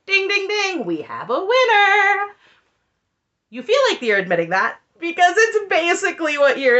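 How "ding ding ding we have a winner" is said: high, booming game show announcer call; sarcastic game show host, slow on the winner line. Pretend. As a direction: ring it out like a quiz host crowning a winner.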